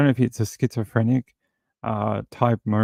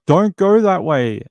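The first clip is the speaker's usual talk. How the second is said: higher, louder, slow mock plea; helpless cop imitation; 8 semitones higher, 7 dB louder, slower than usual. Cop pleading with the attacker who ignores him, higher louder mock plea. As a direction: beg him to stop, knowing he won't. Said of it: "He's like".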